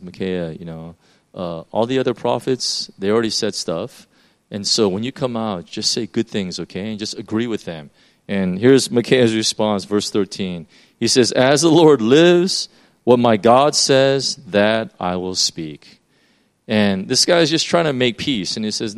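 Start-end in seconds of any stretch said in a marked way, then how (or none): 0.0-7.9 low, soft aside as the messenger; hushed coaxing. Retold or imitated. Messenger coaxes prophet to comply. 11.3-16.0 slow, measured prophet's vow; solemn declaration. Retold or imitated.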